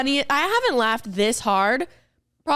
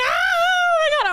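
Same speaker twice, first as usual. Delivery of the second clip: mock shriek. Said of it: "she starts crying loud".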